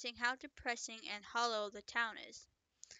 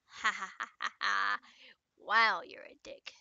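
mocking laugh; 2 semitones lower, 5 dB louder than usual. Character mocks rudely.

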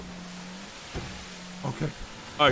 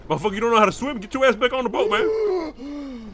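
higher, urgent yelling; shouting after him; 7 semitones higher than usual. Real, not acted. Pirate yells at a fleeing fisherman to return. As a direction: call him back to the boat. Player jumped overboard, shouting back.

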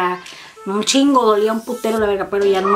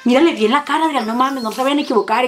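super intense. Retold or imitated. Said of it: "No, yo súper intensa".

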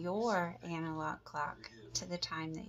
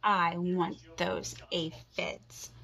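grouchy; 3 dB louder, slower than usual. Acted. Grouchy ladybug demands.

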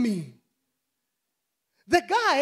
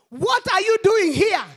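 raised, pressing question; forceful demand; 3 semitones higher, 5 dB louder than usual. Acted. Preacher challenging Elijah with a raised, pressing demand. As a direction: confront him with the question.

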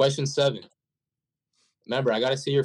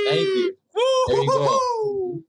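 high, slow excited shout; much slower than usual. Real, not acted. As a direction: cheer it out. Correct answer celebrated, shouting.

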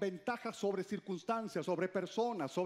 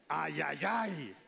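mock lament; 2 semitones lower, slower than usual. Shown as a demonstration. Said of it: "por lo menos di ay".

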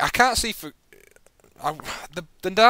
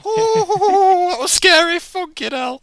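high laugh of relief; scared laughing; 9 dB louder, much slower than usual. Real, not acted. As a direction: laugh off the fright. After a scare.

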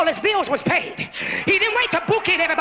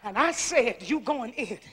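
low, much softer intimate sermon voice; quiet, lower preaching after the shout; hushed preaching; 7 semitones lower, 13 dB quieter than usual. Acted. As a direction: drop the voice and lean in close.

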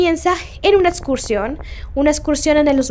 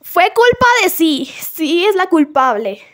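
Susie's voice; 4 semitones higher than usual. Retold or imitated. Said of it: "Y Susie dice".

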